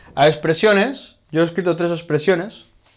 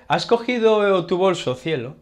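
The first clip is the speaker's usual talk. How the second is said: caring question to partner; 5 semitones higher than usual. Shown as a demonstration. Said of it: "podemos decir".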